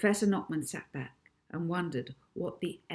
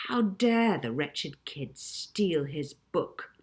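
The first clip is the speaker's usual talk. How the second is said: furious; 2 semitones lower, slower than usual. Acted.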